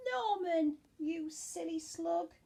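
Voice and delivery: mock scolding snails. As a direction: playfully tell the slug off. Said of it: "they cried".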